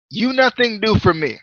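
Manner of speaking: badly imitated Indian-accented English; Mahabali Shera. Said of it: "quit with this terrible accent".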